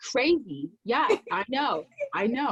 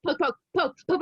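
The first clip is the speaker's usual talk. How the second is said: mock poking; 6 semitones higher, faster than usual. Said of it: "I would be like".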